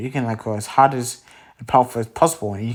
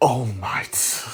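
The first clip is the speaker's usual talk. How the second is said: put-on disgusted tone of voice; 3 dB quieter than usual. Retelling a story where the doctor answers a question: imitating a disgusted tone. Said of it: "goes from a happy tone to a very, like, disgusted tone".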